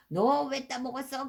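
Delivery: play-acted scolding question; mock scolding. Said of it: "그러면서 야단치는 게 아니거든요".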